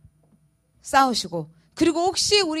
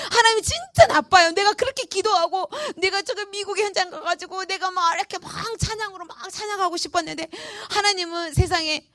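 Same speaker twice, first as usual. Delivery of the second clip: higher, half-sobbing reproach, retold; tearful complaint to God; 6 semitones higher than usual. Pastor reliving her tearful complaint to God, mock sobbing. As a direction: replay the tearful grumble at God like a hurt child. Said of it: "그래서 제가 막 울었어요".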